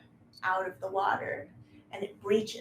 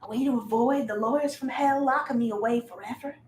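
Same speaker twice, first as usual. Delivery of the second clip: indignant creature; 3 semitones higher, 6 dB louder than usual. Acted. Creature scoffs at the players' offer to talk, loud indignation. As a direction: throw it back at them, pitched up and loud.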